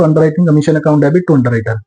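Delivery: slow, even dictating pace; dictating a journal entry at half speed; slow dictation. Shown as a demonstration. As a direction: spell the entry out slowly for students to copy.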